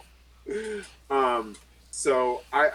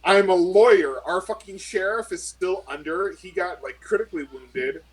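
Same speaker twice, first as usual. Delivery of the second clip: louder, frustrated venting at the boss; exasperated rant; 4 dB louder than usual. Acted. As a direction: vent that this is beyond your pay grade. Character rants at NPC over call.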